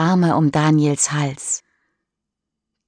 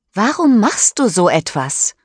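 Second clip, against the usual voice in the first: angry; 4 semitones higher, 3 dB louder than usual. Acted. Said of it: "fragt sie böse".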